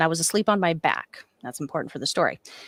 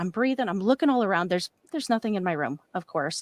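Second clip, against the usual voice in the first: ordinary delivery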